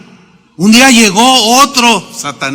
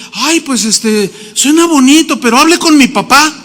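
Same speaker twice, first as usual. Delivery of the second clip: higher-pitched, lightly voiced shy girl; hesitant, mildly coy imitation in a raised pitch; imitated timid girl; 5 semitones higher than usual. Preacher voices the young singer answering the talent scout, timid. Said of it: "un poco tímida, y dijo".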